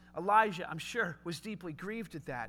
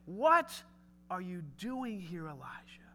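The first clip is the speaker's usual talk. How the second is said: hushed question; 3 semitones lower, slower than usual. Shown as a demonstration. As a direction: ask it gently, almost under the breath. God's question repeated, softly.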